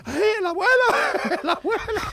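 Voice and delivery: high, loud alarmed cries; panicked shouting. Retold or imitated. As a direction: yell again in a panic. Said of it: "todo el mundo allí gritando".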